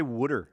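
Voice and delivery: "wooder" with a d sound for the t, as Pennsylvanians say it. Retold or imitated. Host mocking how Pennsylvanians say "wooder". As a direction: say "wooder", not "water". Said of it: "They say".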